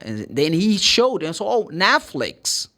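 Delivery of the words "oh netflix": slowly says "Netflix" with a clear long E; careful Netflix. Shown as a demonstration. Teacher slowly models how to say "Netflix". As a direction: draw out the E in "Netflix". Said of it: "Completely different".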